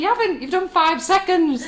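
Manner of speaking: high, laughing put-down, slowing on the last words; teasing daughter. Retold or imitated. Daughter correcting her mum's hula hoop time, high and teasing. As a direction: daughter India mocking, voiced high with a laugh. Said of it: "She said".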